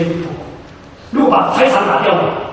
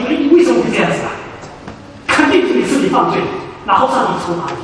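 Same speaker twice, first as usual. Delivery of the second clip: lecturing friends; faster than usual. Retold or imitated.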